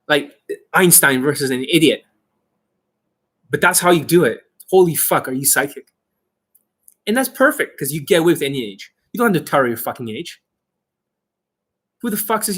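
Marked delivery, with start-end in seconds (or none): none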